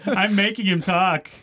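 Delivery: high squeaky dummy voice, slow; squeaky ventriloquist dummy. Pretend. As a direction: talk like a ventriloquist's puppet. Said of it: "worst ventriloquist dummy ever".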